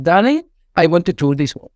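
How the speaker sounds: put-on a light Spanish accent, Darling stretched and leaned on. Director asking the designer for the work, in a light Spanish accent. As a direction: playfully put on a Spanish accent to win her over. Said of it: "with a very Spanish accent".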